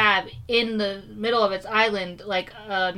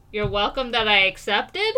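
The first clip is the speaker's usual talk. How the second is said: confused. Acted. Passenger answering the attendant's odd thank you, confused. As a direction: answer like it might be a trick question. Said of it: "I'm confused".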